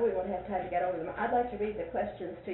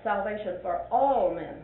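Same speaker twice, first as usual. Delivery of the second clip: all pressed down firmly; stress on ALL; 3 dB louder than usual. Shown as a demonstration. Teacher reading the title one way to show emphasis. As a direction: lean into all. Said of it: "two or three ways of saying that".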